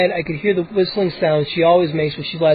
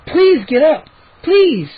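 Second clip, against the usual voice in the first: much higher, urgent plea; begging; 9 semitones higher, 3 dB louder, slower than usual. A narrator's reading. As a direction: beg her to get up. Begging sister.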